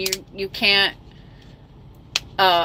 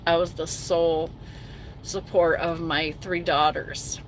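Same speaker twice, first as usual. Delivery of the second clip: low and soft, voice sinking as she remembers; real emotion held down, quiet and heavy; sad, subdued; 4 semitones lower, 5 dB quieter than usual. Real, not acted. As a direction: sad memories of raising three daughters alone, low and soft. Recalling hard years, voice drops.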